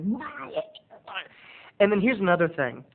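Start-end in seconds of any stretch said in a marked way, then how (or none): 0.0-0.5 high, soft incredulous why; mock disbelief. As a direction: squeak it in disbelief. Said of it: "I was like".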